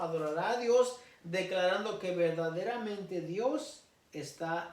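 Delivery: measured Bible reading, slowing at the close; scripture reading. Acted. Preacher reading scripture to the church, measured and solemn.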